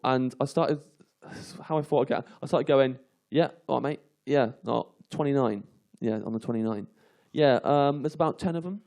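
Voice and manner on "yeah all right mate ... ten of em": fake phone call. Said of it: "I faked a phone call".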